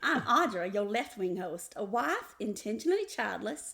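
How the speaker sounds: theatrical Southern-style self-introduction; folksy host spiel; hammed-up show intro. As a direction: list your credentials with playful ceremony. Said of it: "I couldn't keep it straight".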